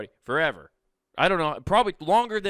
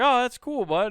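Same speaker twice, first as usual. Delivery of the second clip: big high delighted "oh, that's cool"; bright mock-excited praise for a child; enthusiastic kid-friendly praise; 9 semitones higher, 4 dB louder than usual. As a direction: hype up a little kid's glove. Excited greeting of kid's glove.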